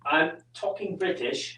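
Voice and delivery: slow put-on British accent; lightly faked British accent. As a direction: have a playful go at a British accent. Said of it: "in my British accent".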